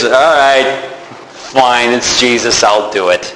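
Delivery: lightly voiced Peter giving in to Jesus, reluctantly; grudging sigh.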